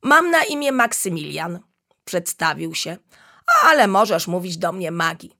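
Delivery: eager little chameleon introducing himself with a laugh; cheerful chatter. Acted. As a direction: babble happily like a friendly little creature. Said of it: "paplał wesoło".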